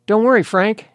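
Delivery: put-on loud, high Midwestern accent call. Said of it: "Midwestern accent, American".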